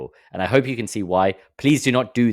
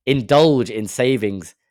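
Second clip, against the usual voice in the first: slow, seductive chocolate-ad read; mock luxury ad; 2 semitones higher, 4 dB louder, slower than usual. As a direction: draw it out like a sweets commercial. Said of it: "trying to sell me a chocolate".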